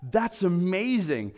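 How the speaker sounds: slow, earnest "That's amazing"; mean "That's amazing" with full weight; heartfelt awe, slowed down; sincere. Shown as a demonstration.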